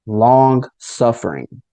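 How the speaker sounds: LONG SUFFERING drawn out slowly; "long suffering" said slowly, each word weighted; capitals and exclamation points. Retold or imitated. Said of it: "all capital letters".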